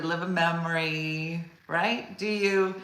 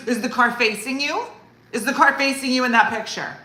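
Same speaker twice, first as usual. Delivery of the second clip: higher, louder suspicious mom; weird grilling; 7 semitones higher, 7 dB louder than usual. Retold or imitated. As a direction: interrogate oddly intense. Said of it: "real weird".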